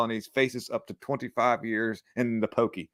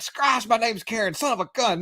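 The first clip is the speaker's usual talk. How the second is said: mocking a Karen in a much higher voice; 9 semitones higher than usual. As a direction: pitch up and play a fussy Karen. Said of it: "Karen's like".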